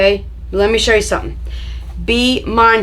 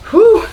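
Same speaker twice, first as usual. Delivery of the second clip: relieved whew; 13 semitones higher, 5 dB louder than usual. Real, not acted. Relief at 21 inches.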